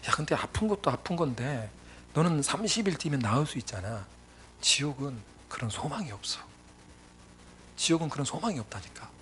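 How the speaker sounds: quiet retold admonition, treading carefully; careful, gentle telling. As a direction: break hard news to a friend softly. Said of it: "조심스럽게 이야기를 해야겠다".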